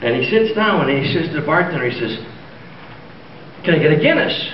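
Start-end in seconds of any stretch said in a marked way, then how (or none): 3.6-4.5 lightly put-on Irish accent, raised pitch; hint of a jokey Irish brogue. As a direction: order a drink as a stage Irishman. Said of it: "do I detect a bit of Irish?".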